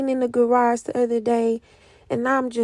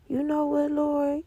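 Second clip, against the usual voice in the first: soft prayer; 2 semitones higher, 6 dB quieter than usual. Retold or imitated. Speaker answering God in prayer.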